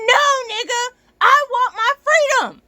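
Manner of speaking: high, loud yelled refusal; furious shout. Real, not acted. Refusing a client's extra day, a loud furious shout. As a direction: yell it like you're reclaiming your life. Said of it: "I'm very worked up right now".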